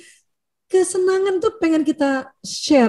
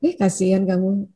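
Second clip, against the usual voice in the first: gentle sympathy; 6 semitones lower, 4 dB quieter than usual. Shown as a demonstration. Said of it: "intonasinya yang bagus".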